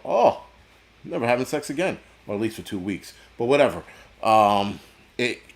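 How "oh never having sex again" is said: mock onlooker. Mock onlooker reaction in rant.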